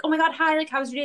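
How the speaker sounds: high, bright mock-cheerful greeting; overly chipper parent voice; imitating dad's cheery hello. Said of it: "he'd be like".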